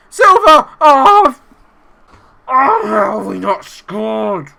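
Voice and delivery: high, loud cry at the miss; anguished shout. Real, not acted. Manager watching his striker miss, anguished shout. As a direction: yell in disbelief at the chance.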